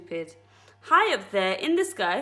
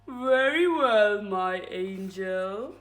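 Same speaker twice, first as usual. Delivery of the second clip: falsely sweet husband; 3 semitones lower, much slower than usual. Acted. Mister Twit, falsely sweet.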